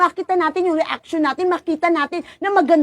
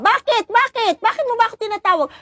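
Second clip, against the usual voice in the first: high, quick questions of why; startled priest; 6 semitones higher than usual. Retold or imitated. The priest, called from his rope, asking the child why, startled. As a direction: answer the child's call in alarm.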